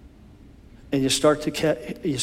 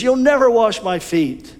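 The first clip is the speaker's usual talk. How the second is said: much higher, stressed never; Peter's high refusal; 8 semitones higher, 4 dB louder than usual. Acted. Peter to Jesus, high proud refusal. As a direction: refuse with bold pride.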